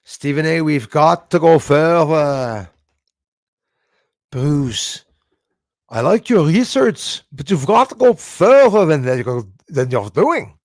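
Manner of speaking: put-on loud, slow Scottish or Irish accent, booming. Reading a viewer's note aloud in a booming Scottish or Irish accent. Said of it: "It was Scottish or Irish accent".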